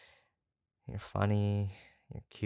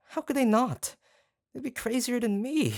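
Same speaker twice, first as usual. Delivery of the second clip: gushing; 14 semitones higher, 4 dB louder than usual. Acted. Gushing, pitch shoots up.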